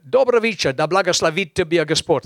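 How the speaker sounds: loud Russian greeting in an English speaker's accent. Shown as a demonstration. Preacher greets Russian congregation, loud Russian greeting. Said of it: "your accent's terrible".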